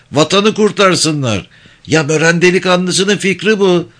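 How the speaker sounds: high, sly village elder; holding court with mock gravity; sly old man speech. Topal İsmail speech, high voice. (tiz sesli, sinsi yaşlı ağa konuşması)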